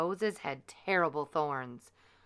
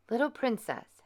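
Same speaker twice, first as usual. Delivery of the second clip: good fairy; 6 semitones higher than usual. Acted. Fairy addresses baby.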